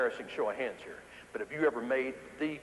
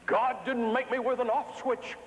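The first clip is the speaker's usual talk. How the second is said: twinkling delight; 8 semitones higher than usual. Retold or imitated. High performer telling why she never stops, twinkling delight. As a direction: proudly sing out her reply, higher than usual. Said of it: "She just twinkles when she talks".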